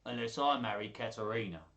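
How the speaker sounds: swaggering proclamation; grand. Acted. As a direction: call the room to order pompously. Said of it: "Petruchio said grandly".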